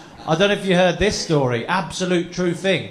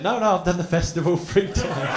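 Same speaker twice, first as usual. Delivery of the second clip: laughing reply; 2 semitones higher than usual. Retold or imitated. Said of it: "I said".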